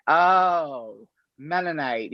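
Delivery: lightly acted commander catching on; mild surprised understanding; dawning realization. Commander suddenly understands her religion.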